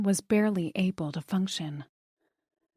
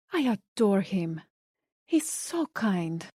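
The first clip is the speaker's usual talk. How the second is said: put-on Spanish accent; slower than usual. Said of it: "with a thick Spanish accent".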